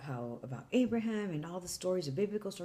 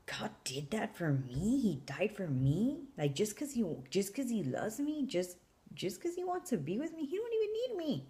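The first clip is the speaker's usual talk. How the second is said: overwhelmed; 4 semitones higher than usual. Retold or imitated. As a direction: marvel at it, rising higher as it sinks in. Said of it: "He doesn't know I'm crying".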